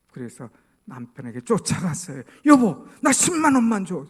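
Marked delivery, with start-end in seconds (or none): 2.5-4.0 high, loud wifely demand; sudden loud, high-pitched request; acted urgent call. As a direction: call out after your husband. Wife runs after husband, calling.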